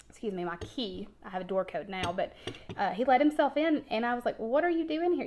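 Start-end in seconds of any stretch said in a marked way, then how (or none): 4.4-5.3 high, sharp demand; alarmed demand. Retold or imitated. Woman confronting drunk ex in her home, high sharp demand. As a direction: confront him for letting himself in.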